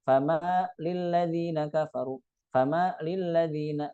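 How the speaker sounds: "famalil ladzina" with lam cut off; wrong split. Shown as a demonstration. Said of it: "Jangan dibaca". (dibaca terpisah, salah)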